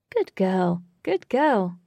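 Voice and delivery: emphatic cooing praise, lifting on the repeat; praising a pet. A narrator's reading. Katy rubs the cat's head, praising it fondly. Praising the cat while petting.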